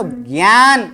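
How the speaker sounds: ज्ञान as "gyaan", g gliding into y; correct ज्ञान. Shown as a demonstration. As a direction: answer with a drawn-out gy in ज्ञान. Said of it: "क्या बोला जाता है उसको?". (ज्ञान को "ग्यान" बोलना)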